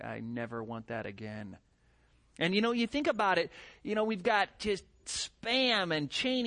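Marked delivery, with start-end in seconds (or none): 0.0-1.6 quiet inner vow. Retold or imitated. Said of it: "I just think".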